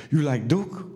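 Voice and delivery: imitated broken Bulgarian-accented question. Bulgarian man questions the Canadian buddy in a broken accent. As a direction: ask it in rough Bulgarian-accented English. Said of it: "heard something in that broken accent".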